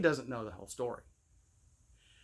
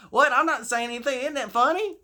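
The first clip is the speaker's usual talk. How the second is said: put-on innocent kid; 9 semitones higher, 5 dB louder, faster than usual. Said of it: "kid's reply voiced".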